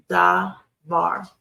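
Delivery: "da, var." split into two separate syllables with a pause. Shown as a demonstration. Teacher sounding out the word for students, syllable by syllable. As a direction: sound out each syllable on its own.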